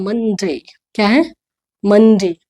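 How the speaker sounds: "मंडे" as MUN-day with a gliding final "day"; model pronunciation. Shown as a demonstration. Teacher modelling Monday for her class, "मंडे" said MUN-day. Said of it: "मंडे नहीं लिखा है इसको".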